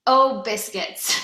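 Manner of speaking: slow, loud mock exclamation; a light cartoon dad's mild curse; imitating the cartoon dad. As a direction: play the cartoon dad's frustrated "Oh, biscuits", drawn out. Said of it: "He says".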